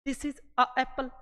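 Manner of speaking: slow, stumbling over a apple; awkward a apple. Shown as a demonstration. Teacher shows students the hard "a apple", slowly. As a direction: drag out "a apple" to show the clash. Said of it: "क्या आप इसको आसानी से बोल पा रहे हो".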